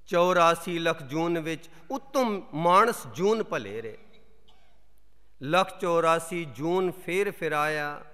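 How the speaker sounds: measured Gurbani verse reading with long pauses; solemn, deliberate recital of sacred couplets; scripture recitation. Acted. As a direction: declaim each phrase, letting the line endings fall.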